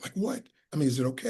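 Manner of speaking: imitating her hushed, hesitant speech; soft voice. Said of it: "she had this soft voice".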